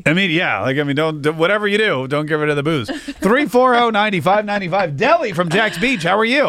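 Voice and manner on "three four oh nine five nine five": slow, drawn-out number read; phone number read-out. Acted. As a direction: announce the number slowly. Radio host reading call-in number.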